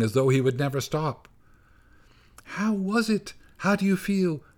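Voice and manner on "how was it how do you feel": high, anxious little mouse; mother mouse voice. A narrator's reading. Mother mouse asks her trembling baby how he feels, high anxious voice. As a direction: fuss over her baby tenderly.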